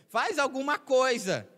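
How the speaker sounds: high, loud, drawn-out mock plea; desperate pleading. Preacher mimicking someone desperately begging God to act, desperate pleading. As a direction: cry out in acted desperation. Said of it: "ficar desesperado pra Deus".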